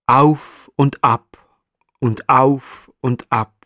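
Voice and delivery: slow sing-song up and down, rising then falling; rhythmic up and down. A narrator's reading. Narrator mimics the marmot scratching, slow sing-song. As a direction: draw out each auf like scratching back and forth.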